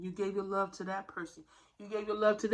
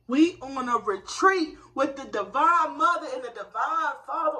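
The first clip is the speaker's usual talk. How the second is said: louder and higher, laughing with joy; excited, laughing; 5 semitones higher, 8 dB louder than usual. Real, not acted. Telling viewers about the retreat, laughing with excitement. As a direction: share the good news with a laugh.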